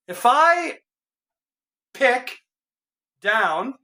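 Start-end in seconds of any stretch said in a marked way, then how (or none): none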